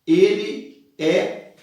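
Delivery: high drawn-out proclamation; mock proclamation. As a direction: cry it out like the slave girl. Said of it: "ela termina dizendo assim".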